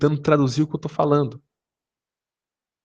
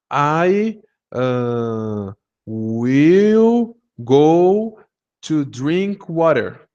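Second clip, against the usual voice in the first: clumsy literal English; much slower than usual. Shown as a demonstration. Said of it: "Então vai ficar".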